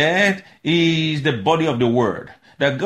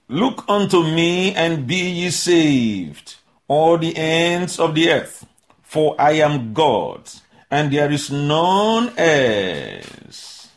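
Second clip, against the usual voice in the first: drawn-out solemn verse; slow scripture reading; slower than usual. Acted. Preacher reading Isaiah to congregation, slow solemn. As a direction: read it slow and weighty.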